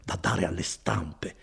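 lightly voiced kindly cousin, proud of his work; Bortolo. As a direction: warm and boastful, an easy hearty tone. Bortolo goes on. (Bortolo rassicura Renzo, voce bonaria appena accennata)

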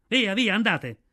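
loud chase-off. A narrator's reading. Mowgli shouting the wolves out of the circle, loud. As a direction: shoo the wolves off with force.

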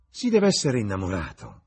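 loud, high exclamation; exclaiming. A narrator's reading. Lady Narborough teasing Dorian about being in love, exclaiming. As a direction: burst out with it as a lively hostess. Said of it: "esclamò Lady Narborough".

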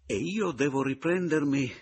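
furious protest; angry exclamation. A narrator's reading. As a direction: spit it out in anger. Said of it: "esclamai irosamente".

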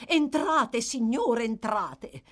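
high, loud, eager welcome; gushing invitation, falling away at the end; effusive joy. A narrator's reading. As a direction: usher a guest in with showy delight. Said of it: "con una gioiosità autentica o simulata".

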